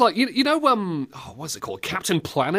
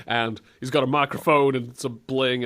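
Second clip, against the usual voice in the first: usual speaking voice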